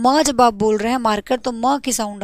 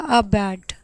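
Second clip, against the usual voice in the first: slow example; 4 semitones lower than usual. Shown as a demonstration. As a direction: say a bat slowly, drawing out the a. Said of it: "मैंने बोला". (धीरे से उदाहरण)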